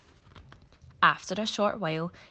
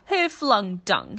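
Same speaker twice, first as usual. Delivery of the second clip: slow, louder call, stressing who; crying out; 4 semitones higher, 7 dB louder, slower than usual. Acted. Monkey cries out his question, slow and loud. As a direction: call out to everyone. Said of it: "he cried again and again".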